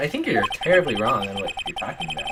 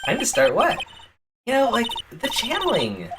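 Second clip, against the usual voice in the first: put-on high, flustered Valley Girl; 9 semitones higher than usual. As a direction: stammer it out like a ditzy girl. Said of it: "Valley Girl voice".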